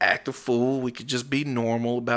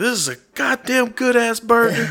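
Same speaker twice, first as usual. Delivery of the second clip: put-on yell, higher and louder; 10 semitones higher, 7 dB louder than usual. Imagining an actor tasting a burger: Samuel L. Jackson yelling. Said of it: "just to see him take on the Whataburger".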